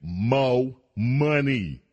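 very slow, sly "Mo money"; host mocking the lawmaker, slow and sly; mocking drawl. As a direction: stretch it out like a greedy demand. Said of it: "Darling is saying".

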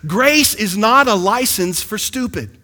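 slow Texas preacher twang on stupid; a light Texas drawl; Texas pastor drawl. Retold or imitated. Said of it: "the way my pastor says it in Texas".

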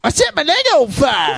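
high shouted whoop; clip shout. Acted. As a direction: yell it like a wild party clip. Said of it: "reenactment of Dub's call".

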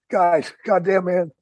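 rising high, frightened shout; panicked yell. Retold or imitated. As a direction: yell in terror that they're here. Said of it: "And I'm screaming".

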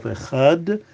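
echad with a carefully sounded guttural chet; careful pronunciation. Shown as a demonstration. Teacher showing how to pronounce the word, careful "echad". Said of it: "pronounce the chet properly".

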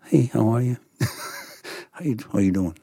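loose James Gandolfini impression. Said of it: "I can't do a James Gandolfini accent".

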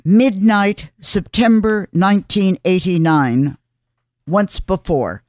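measured column read with deliberate pauses; scripted radio commentary. Acted. Host telling listeners of a remembered hurricane, scripted commentary. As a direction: read it out phrase by phrase, dropping at the ends.

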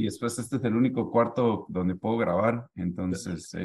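echoing room; cathedral echo. Real, not acted. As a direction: voice bouncing in an empty room. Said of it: "hay un eco aquí". (con eco de cuarto vacío)

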